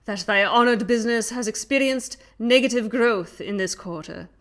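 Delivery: hammy stage actor. Acted. Young Dingus memo dramatized.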